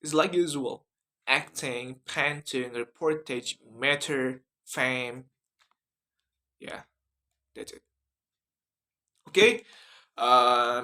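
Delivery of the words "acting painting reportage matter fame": American accent word list with front A. Shown as a demonstration. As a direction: read the words briskly in an American accent. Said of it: "in American accent".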